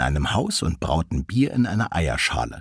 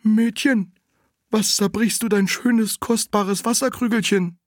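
little spring; 12 semitones higher than usual. Acted. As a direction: scold like a little fountain. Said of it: "Da sprach das Brünnlein".

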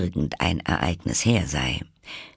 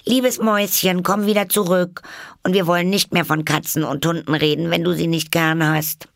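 high, singsong call, louder; friendly calling after; 11 semitones higher, 4 dB louder than usual. A narrator's reading. Alice calls the fleeing mouse back, friendly. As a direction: coax from afar in a high, sustained voice. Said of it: "Sie rief ihr daher freundlich nach".

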